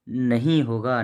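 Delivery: "नहीं" drawn out as the correction; stress on नहीं. Shown as a demonstration. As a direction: lean on नहीं, replacing न. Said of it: "ना, ना होगा, नहीं होगा". ("नहीं" पर ज़ोर देकर सुधार)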